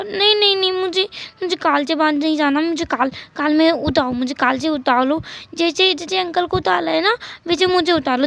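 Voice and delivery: put-on a child's whiny begging. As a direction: beg like a small child wanting to be carried.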